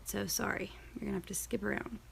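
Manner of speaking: breathy whisper under her breath, fast; whispered aside. Real, not acted. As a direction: mutter the apology quickly to yourself. Aside while searching her calendar.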